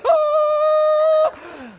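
very high, drawn-out panicked cry; mock shocked cry. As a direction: yelp like guys seeing a boy cry. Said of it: "all the guys are like".

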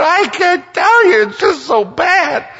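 very high, loud, wailing mock sob; imitated sobbing. Bob sobbing to David on the phone, in a hammed-up high wail. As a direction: wail it like a grown man crying on the phone. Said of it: "he is sobbing uncontrollably".

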